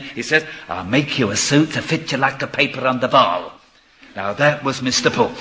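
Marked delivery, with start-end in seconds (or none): 0.7-3.5 quick imitation of an old Jewish tailor's accent. Tailor promising a customer a suit, light Jewish accent. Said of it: "to use his Jewish accent".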